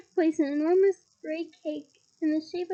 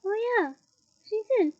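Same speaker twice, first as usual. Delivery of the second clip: higher, quick agreement; eager agreement; 6 semitones higher, 6 dB louder than usual. Acted. Harry and Ron hurriedly back up Hermione, higher. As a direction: rush to back her up. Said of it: "Harry and Ron".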